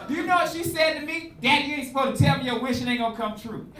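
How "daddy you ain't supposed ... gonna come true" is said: lightly voiced scolding daughter.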